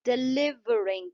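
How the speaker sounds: डिलीवरिंग slowed, with weight on ली; stress on LI. Shown as a demonstration. Teacher showing students the stress, डिलीवरिंग stressed on ली. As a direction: lean on the ली in डिलीवरिंग. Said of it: "ली का जो sound है उस पे stress है".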